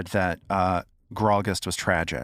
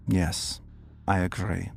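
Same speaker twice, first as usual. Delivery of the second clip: seething; 4 semitones lower, 5 dB quieter than usual. Acted. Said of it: "seethes, gritting his teeth".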